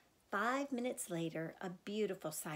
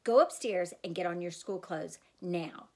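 mother furious but controlled; low danger voice; 5 dB louder than usual. Acted. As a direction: hold the anger down low. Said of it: "her voice down and low in the danger zone".

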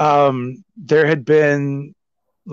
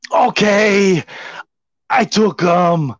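retold confession; 5 semitones higher, much slower than usual. Houseguest finally confesses.

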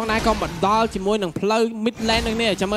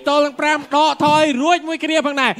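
live play-by-play. Real, not acted.

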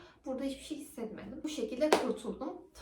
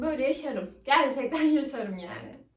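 laughing; 7 dB louder than usual. Real, not acted. Refusing tampon removal, laughing.

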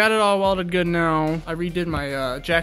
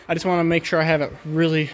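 breathless, winded; gasping for air between words; out of breath. Real, not acted. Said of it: "sorry, I'm out of breath".

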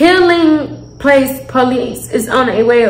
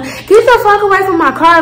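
mild retold yell; 6 semitones higher than usual. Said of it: "like, telling".

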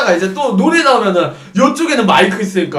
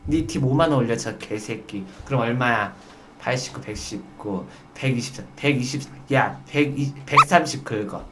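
low, hushed plotting; confiding in waiter's ear; 9 semitones lower, 9 dB quieter than usual. Acted. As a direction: murmur it secretly into the waiter's ear. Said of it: "웨이터가 귀 갖다 대".

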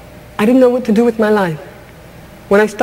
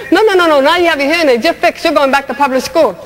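slap the dream down with a firm no; bossy voice of society; 3 semitones higher than usual. Retold or imitated. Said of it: "society took me by the back of the neck and said".

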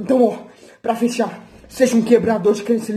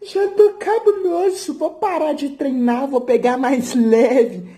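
mock whiny quitter; 3 semitones higher, slower than usual. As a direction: whine it out slowly, half laughing. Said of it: "você". (imitando um jogador acomodado, choramingando devagar)

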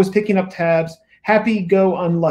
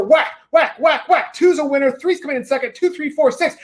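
excited gambler cheering his horse home, rising higher; retold race calling; 4 semitones higher than usual. Gambler yelling at the bar TV, escalating excitement. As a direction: urge the horse on like at the track. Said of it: "And then he just whacks the bar".

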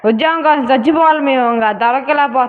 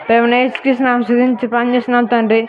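mock-earnest prayer, each plea ending on అయ్యా; a hint of a pious plea; comic prayer; 2 semitones lower than usual. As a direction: pray like a believer asking for a salary. Jobless youth prays.

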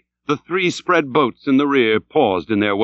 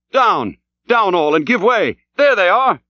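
high, urgent alarm call; crying out; 8 semitones higher, 3 dB louder than usual. A narrator's reading. Harpooneer Tashtego spots whales, crying out urgently. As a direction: cry out, climbing higher at the sighting. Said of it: "crying out".

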